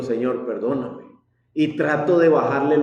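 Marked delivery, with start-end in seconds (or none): 0.0-1.0 hushed, contrite plea to the Lord; soft prayer. Retold or imitated. A father scolding his son stops to quietly beg forgiveness. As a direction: murmur it like a sorry confession.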